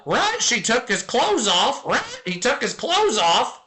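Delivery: squawky parrot voice jumping high at the end. Acted. Streamer voicing a tattling parrot in a dirty joke, squawky and rising. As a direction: play the parrot, ending each bit with a shrill rising right.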